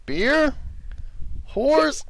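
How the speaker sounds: high, rising innkeeper offering everything; rowdy innkeeper voice. Acted. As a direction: barkeep listing his wares, pitch climbing. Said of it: "he's like".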